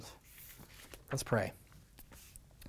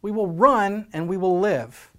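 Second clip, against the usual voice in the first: cheeky retort, higher and louder on the no; smart aleck soldier; 5 semitones higher, 5 dB louder, slower than usual. Retold or imitated. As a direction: talk back to the commander. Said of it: "this smart aleck soldier says".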